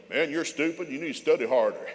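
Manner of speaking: loud scolding parent, imitated; mock yell at the kids; retold yelling. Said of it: "I used to yell at them".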